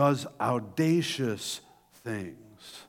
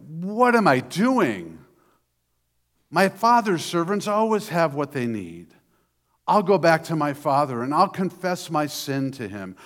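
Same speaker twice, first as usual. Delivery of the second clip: louder, higher, fervent resolve to go home; resolving son; 4 semitones higher, 6 dB louder than usual. Acted. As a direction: pour out the decision to return to father. Son's repentant resolve, acted.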